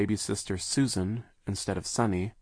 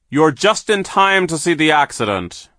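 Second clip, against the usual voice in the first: sneering villain; 9 semitones higher, 13 dB louder than usual. A narrator's reading. Villain foreman voiced in story.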